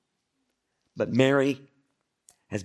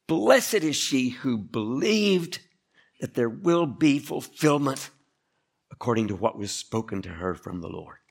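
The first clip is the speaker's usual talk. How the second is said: proclaiming blessing; 4 dB louder than usual. Acted. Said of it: "Elizabeth blesses Mary".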